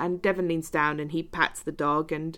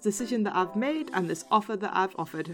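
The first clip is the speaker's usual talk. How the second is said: Scottish host reassuring himself; Scottish accent. Acted. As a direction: comically insist in a Scottish accent. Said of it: "when I start doing a Scottish accent".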